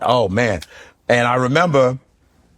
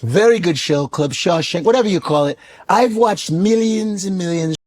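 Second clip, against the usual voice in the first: Shannon Sharpe impression; 4 semitones higher than usual.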